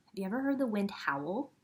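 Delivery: fast hushed question; quick whispered wonder. Acted. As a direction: whisper it like a secret. Asks children about howling wind.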